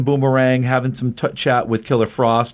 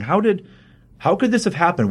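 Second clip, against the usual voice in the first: higher-pitched, lightly acted bewilderment; retold disbelief; 7 semitones higher than usual. Justice League questioning Batman about the squad, retold disbelief. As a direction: imitate a baffled team demanding answers.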